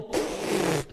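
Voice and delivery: spluttered raspberry of laughter; mocking lip-splutter; dismissive hyena snort. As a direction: imitate hyenas bursting out in scorn. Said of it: "they laugh at his whimper".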